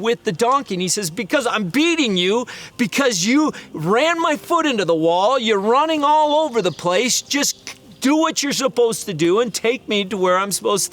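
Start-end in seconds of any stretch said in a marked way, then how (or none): 1.1-10.9 high, raised exasperated answer; annoyed retort. Retold or imitated. Balaam arguing back at his donkey, raised and annoyed.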